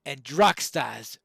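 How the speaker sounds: lightly voiced haunted widow, swinging from hushed to forceful; dramatic widow's plea. Widow begs Pineleaf to slay the beast, lightly acted dramatic plea. Reads widow's tale in character.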